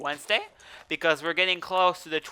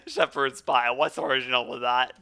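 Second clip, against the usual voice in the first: mocking; 2 semitones lower than usual. Real, not acted. Mocking the English name.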